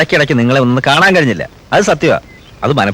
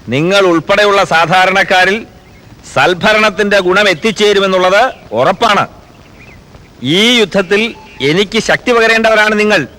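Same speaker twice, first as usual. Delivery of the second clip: earnest political address, slightly raised pitch; solemn declaration; 3 semitones higher than usual. Acted. Chief minister defending himself to his own people, solemn and emphatic. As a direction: declare it firmly, phrase by phrase.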